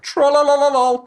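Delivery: high, loud sing-song taunt. Retold or imitated. Sony mocking a stumbling rival, high sing-song taunt. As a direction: trill it out like a smug child. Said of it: "pop their head up and go like".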